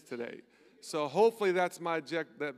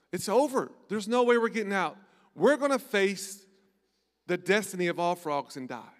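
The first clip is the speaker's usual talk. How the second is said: panicking frog; 3 semitones higher, 6 dB louder than usual. Acted. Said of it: "He panics".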